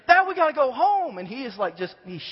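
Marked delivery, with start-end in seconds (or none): 0.1-1.2 put-on high, loud frightened plea in a child voice; begging like a terrified little boy; scared kid. Frightened son begging dad to leave, high and loud. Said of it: "he's scared".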